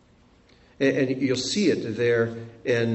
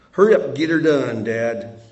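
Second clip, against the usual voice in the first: 1 brusque command; 3 semitones lower than usual. Retold or imitated. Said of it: "that's kind of how it comes across".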